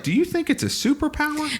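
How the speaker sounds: asked high through laughter; giggling the question out; laughing. Real, not acted. Laughing while teasing co-host about uncle's catchphrase.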